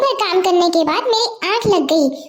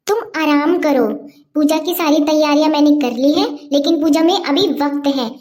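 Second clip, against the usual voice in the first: put-on a caring older sister voice, a touch lower; lower, reassuring elder sister; 4 semitones lower than usual. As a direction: soothe her sick younger sister. Elder sister comforts sick Seema. (बड़ी बहन का दिलासा)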